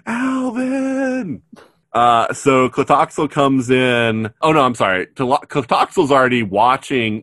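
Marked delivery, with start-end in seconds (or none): 0.1-1.4 high squeaky chipmunk call. Retold or imitated. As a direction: squeal the name like a cartoon chipmunk. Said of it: "sound like a demented chipmunk".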